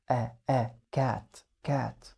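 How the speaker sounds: "كات" said with a short clipped a. Shown as a demonstration. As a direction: keep the a in "كات" short and quick. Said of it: "الشورت بيبقى قصير".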